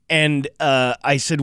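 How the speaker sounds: ordinary talk, nothing marked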